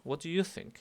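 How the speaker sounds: single out you against everyone else; contrastive stress on YOU. Shown as a demonstration. Teacher contrasting you with all the others, stress on YOU. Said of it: "en contraste con todos los demás".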